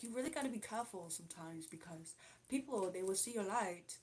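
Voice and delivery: imitated London accent, lightly done; Charlie. Streamer showing how a London acquaintance talks, imitated London accent. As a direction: copy a London girl's way of talking. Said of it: "she kinda talks like this a little bit".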